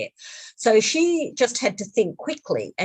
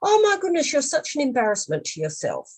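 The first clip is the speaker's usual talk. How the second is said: high, loud imitation of an outraged child; acted high-pitched embarrassed outburst; losing it; 11 semitones higher, 4 dB louder than usual. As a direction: scold Mum as a mortified kid would. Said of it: "he just lost it".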